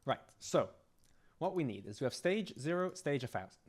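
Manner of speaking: strained, hoarse voice; straining a voice that is going; losing voice. Real, not acted. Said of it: "And I'm losing my voice".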